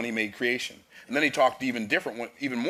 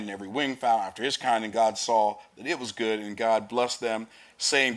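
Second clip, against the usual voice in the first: brisk, declaiming Bible reading; scripture reading. Acted. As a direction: read the verses out like from the pulpit. Reads scripture aloud.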